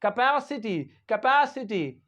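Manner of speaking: Capacity said "kuh-PASS-i-tee"; careful pronunciation. Shown as a demonstration. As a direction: stress the PA in Capacity, as in pat. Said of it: "क्या पढ़ेंगे इसे?".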